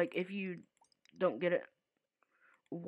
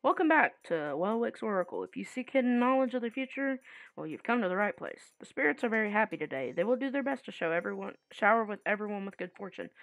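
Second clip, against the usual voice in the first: fortune teller; 3 semitones higher than usual. Retold or imitated. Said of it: "fortune teller".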